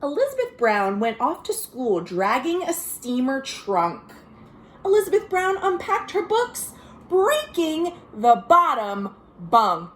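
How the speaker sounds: put-on lively read-aloud for kids; storybook reading. A narrator's reading. Reading a picture book to children, lively storytelling. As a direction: read the rhyme like to little listeners.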